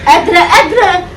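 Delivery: exaggerated fake concern. Wife overdoing fake concern.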